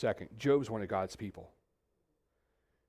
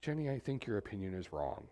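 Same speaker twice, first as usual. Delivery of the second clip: softer, evenly spoken correction; calm, mock-reasonable; 3 semitones lower, 7 dB quieter than usual. Husband mock-quoting a calm reply to his wife, softly. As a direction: say it coolly, as if perfectly reasonable. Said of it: "do I say calmly".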